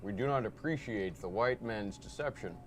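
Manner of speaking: put-on low, soft, solemn Native American accent; deep-voiced solemn Native American accent. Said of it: "Marcus does a much better one".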